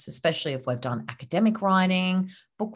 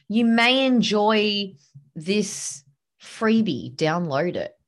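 hedging version; 4 semitones higher, 3 dB louder than usual. Shown as a demonstration. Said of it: "Get rid of it".

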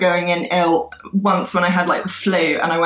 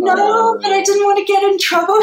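meek younger self; 13 semitones higher than usual. Retold or imitated. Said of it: "And I was like".

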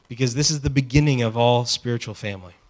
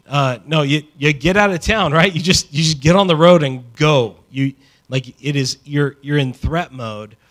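louder, pressing urgency about fleeing town; urgent; 3 semitones higher, 10 dB louder than usual. Acted. Pastor urging the congregation to flee town, loud and urgent. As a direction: drive it home like you're running for your life.

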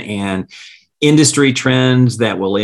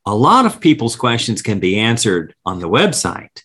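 higher, put-on recorded voice; lightly voiced hold message; phone menu voice; 4 semitones higher than usual. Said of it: "and then they say".

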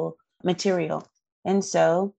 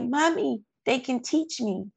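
imitating daughter; 7 semitones higher than usual. Mother retelling her daughter's joy about her teachers, light child voice. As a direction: echo the daughter's amazed relief. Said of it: "she was just like".

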